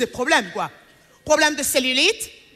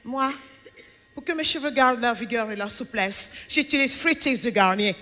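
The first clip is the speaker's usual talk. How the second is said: softer, lower breathy-sounding ad-model voice; mock shampoo ad; 3 semitones lower, 4 dB quieter than usual. Parodying the shampoo ad woman, soft commercial voice. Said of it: "elle te fait".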